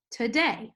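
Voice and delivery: "today" with short first syllable, longer stressed second. Shown as a demonstration. Teacher showing an iambic foot, second syllable of "today" stressed. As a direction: lean on the "day" in "today". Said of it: "short unstressed syllable and a longer stressed syllable".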